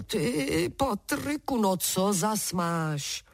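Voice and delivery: a lightly voiced giant bargaining for freedom; sly wind giant. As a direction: tempt him slowly with buried gold.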